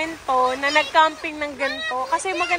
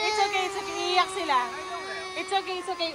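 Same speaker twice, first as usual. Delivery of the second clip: high, softened comforting; real tender reassurance in a storm; soothing; 6 semitones higher, 6 dB quieter than usual. Real, not acted. Soothing children about to cry.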